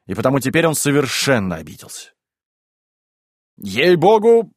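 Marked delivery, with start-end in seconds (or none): 3.6-4.5 louder, higher, swearing by God; emphatic insistence. Acted. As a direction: hammer home the threat as a mock vow. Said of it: "повторил Ноздрёв".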